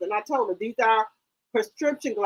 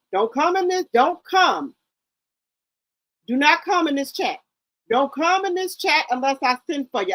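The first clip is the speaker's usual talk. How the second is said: stern warning; 4 semitones higher than usual. Retold or imitated. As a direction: lay down the law to trolls. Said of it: "And I done told people".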